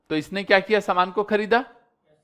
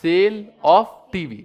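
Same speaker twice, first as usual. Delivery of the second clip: slow answer; 3 dB louder, much slower than usual. Shown as a demonstration. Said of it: "क्या बोलेंगे?".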